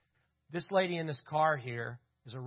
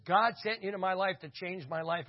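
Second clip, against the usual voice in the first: higher, louder, retold excited outburst; excited gratitude; 6 semitones higher, 5 dB louder than usual. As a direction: blurt it out like a thrilled convert. Runs over, hugs them, thankful.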